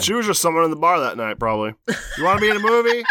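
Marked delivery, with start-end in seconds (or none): 2.2-3.0 sleazy producer voice. Retold or imitated. Voicing casting director.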